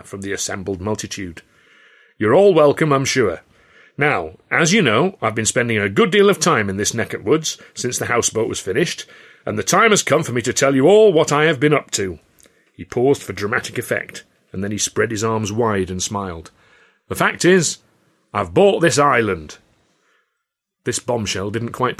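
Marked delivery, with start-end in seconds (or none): 2.2-12.2 a hint of a grand orator, louder; mildly voiced speech to his staff; lightly voiced showman boss. Showman addressing assembled crowd. 17.1-19.6 louder, slow dramatic announcement; grand reveal. Acted.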